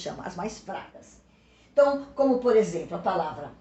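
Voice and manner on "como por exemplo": usual speaking voice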